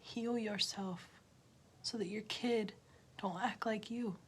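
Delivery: quiet unvoiced whisper. Real, not acted. Warning parents about their kids, a whisper. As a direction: drop to a whisper.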